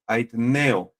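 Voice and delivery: "aitneo" with a plain N, no ñ; Greek word demo. Shown as a demonstration. Preacher correcting the sound of a Greek word, "aitneo" with N. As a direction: say "aitneo" with N and stressed E. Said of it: "no hay ñes, es con N".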